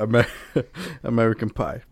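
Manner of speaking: mock announcer, laughing through; trailer voice. Continuing the movie parody, laughing announcer. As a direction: ham it up like a teen-movie trailer.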